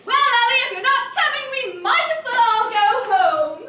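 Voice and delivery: loud, projected ultimatum; calling offstage. Acted. Wife calling to Ellie who won't come out, projected. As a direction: call out a threat to leave.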